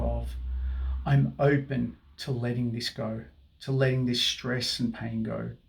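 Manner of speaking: soothing tapping guide; guided affirmation. Acted. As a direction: speak each phrase as a calming mantra.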